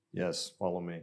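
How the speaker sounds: put-on a light, low Russian accent on the store clerk; lightly voiced Russian clerk, barely put on. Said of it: "he becomes Russian in my story".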